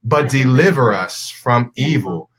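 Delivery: solemn, measured Lord's Prayer recitation; reciting prayer. Real, not acted. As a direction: lead the group in prayer, slow, drawn-out phrases.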